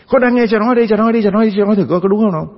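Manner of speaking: defiant challenge. Acted. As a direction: push back at the priest, daring him. Parishioner challenging the priest.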